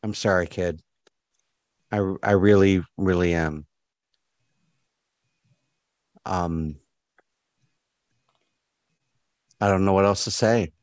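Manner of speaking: low, halting apology; regretful Janice. Acted. Janice apologising to the departing kid, low and regretful. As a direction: apologise in a low voice with long pauses. Game master plays apologetic character.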